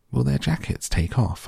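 high-pitched Lucy asking a stranger; little girl's question. A narrator's reading. Lucy asks about lambs' coats.

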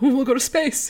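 a hint of a smug capitalist pitching space; mocking capitalist. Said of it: "the capitalists scrambling to come up with another one".

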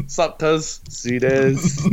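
lightly voiced broad Kiwi bloke; two white guys hamming up a rough Kiwi accent; hoary New Zealander. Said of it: "trying to sound hoary".

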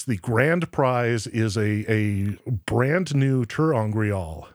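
slow, grand prize reveal; booming prize announcer. Acted. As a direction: drag out the prize name like a TV host.

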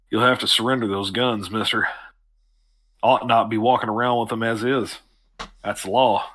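lightly voiced deep doorman; measured lawman's doorman, only slightly put on; a hint of a deep-voiced gatekeeper. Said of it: "pretty deep voice".

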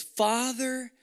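hushed, unvoiced "I will obey you"; a whispered promise to the Father; whispered vow. Shown as a demonstration. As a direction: breathe the vow out. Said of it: "it's translated as".

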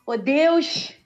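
praying in broad Carioca, hushing final S; thick Carioca accent. Shown as a demonstration. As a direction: call on God with exaggerated Rio accent. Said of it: "sotaque de carioca muito puxado".

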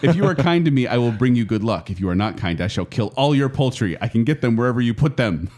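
a hint of a sneaky weasel, laughing through it; lightly voiced sly little creature. Shown as a demonstration. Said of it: "I should do, like, a weasel voice".

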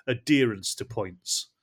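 slow, each word laid out; slow and deliberate. Shown as a demonstration. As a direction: spell out the term slowly. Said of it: "I'll define it more".

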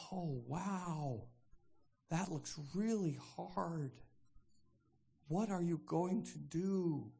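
slow, drawn-out concern; measured mock sympathy. Speaker modelling a reply to a passive victim, measured sympathy. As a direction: commiserate slowly, offering no fix. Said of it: "is to say".

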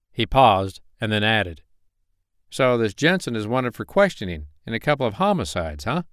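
polite Carolina investigator on phone; friendly investigator voice. Acted. Malone talks on phone.

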